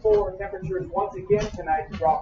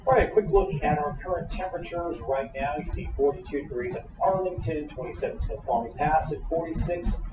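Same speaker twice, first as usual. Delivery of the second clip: lightly hammed TV weather report; weatherman impression. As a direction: read temps like a TV weatherman. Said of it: "best weatherman impression".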